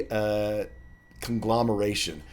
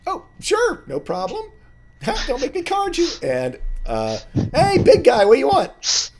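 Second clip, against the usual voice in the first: very high, loud squeaky halfling; chirpy barkeep greeting old friends; a high squeaky halfling barman; halfling bartender; 8 dB louder than usual. Acted.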